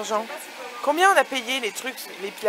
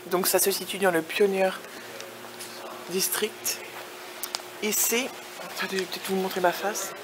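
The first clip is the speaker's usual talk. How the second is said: talking around a sweet; words round a sucked candy; candy in mouth. Real, not acted. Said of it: "j'ai un bonbon dans la bouche".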